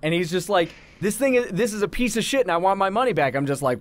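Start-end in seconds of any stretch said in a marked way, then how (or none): 1.0-3.3 fast, higher-pitched irate customer; retold angry yelling. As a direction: rattle off a mock customer complaint. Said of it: "Please stop yelling".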